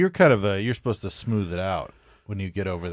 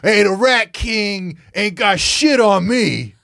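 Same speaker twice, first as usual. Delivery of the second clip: tough guy voice; 11 semitones higher, 7 dB louder, slower than usual. Acted. Voicing a cocky Ball Breaker character.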